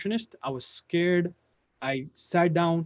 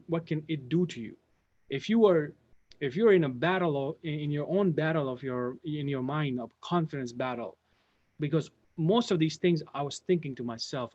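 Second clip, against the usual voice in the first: ordinary talk, nothing marked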